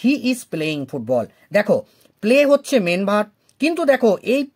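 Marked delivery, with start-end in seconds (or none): 0.0-1.2 slow example. Shown as a demonstration. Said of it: "দেখো, উদাহরণ দেওয়া হয়েছে".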